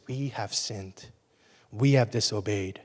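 soft, low lines with "we" leaned on; stress on we. Shown as a demonstration. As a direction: stress "we" in "we have sinned" and "We have disobeyed". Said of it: "Daniel didn't say they have sinned".

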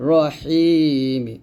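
slow, drawn-out "রহিমি" with heavy r and long hi; Quran pronunciation demo. Shown as a demonstration. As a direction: stretch the hi in "রহিমি". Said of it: "সঠিকভাবে উচ্চারণ করতে হবে".

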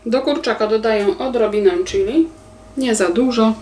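normal talking voice

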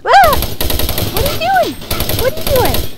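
high, loud panicked screams; shrieking scare. Real, not acted. Player jump-scared by monster, shrieking high.

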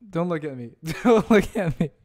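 embarrassed laughing. Real, not acted.

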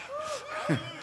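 a burst of high laughter. Real, not acted. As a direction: laugh high at your own joke. Joking about looking better.

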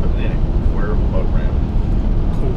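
country drawl, Quarryville squashed into "Cuervo"; slow country-accented "Cuervo". Real, not acted. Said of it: "just your country way of saying that".

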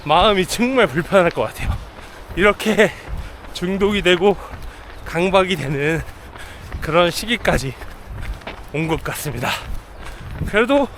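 talking while jogging; breathy voice mid-run; while running. Real, not acted. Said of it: "데일러닝을 나왔습니다". (달리면서 말하기)

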